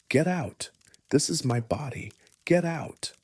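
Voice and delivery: high, loud cry of protest; screamed. A narrator's reading. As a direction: scream it at an invisible intruder, pitch jumping up. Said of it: "Then she'd scream".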